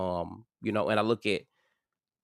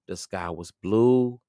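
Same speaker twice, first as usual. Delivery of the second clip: whispering; 5 dB louder, much slower than usual. Real, not acted. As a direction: breathe it out in awe. Dreamy recollection of the morning.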